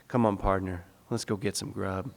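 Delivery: hint of the grandfather, said low; grandfather's voice. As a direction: lightly voice the grandfather calling his helper. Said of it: "my grandfather says".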